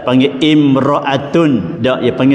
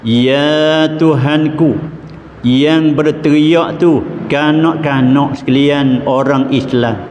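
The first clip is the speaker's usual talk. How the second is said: angels' reply. Acted. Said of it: "malaikat jawab kata".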